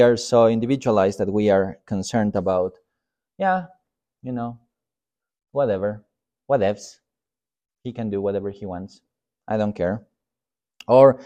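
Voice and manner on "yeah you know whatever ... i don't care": soft, couldn't-care-less delivery; mock indifference. Pastor voices individualized churchgoer shrugging off others, quietly indifferent. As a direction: shrug it off in short phrases. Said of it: "we don't get angry about those things".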